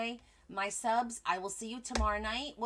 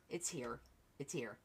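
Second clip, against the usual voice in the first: 1 ominous hush; 8 semitones lower, 8 dB quieter than usual. Pretend. Dramatic winter's here.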